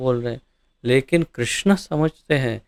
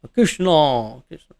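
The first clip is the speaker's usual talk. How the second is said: put-on Russian accent. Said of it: "अगर Russian है तो".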